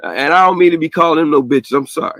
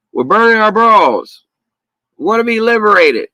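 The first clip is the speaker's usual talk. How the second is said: mock protester voice; 8 semitones higher than usual. Mocking feminists' chant.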